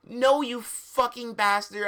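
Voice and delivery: a mild mock yell. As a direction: yell back in mock fury. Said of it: "I yielded".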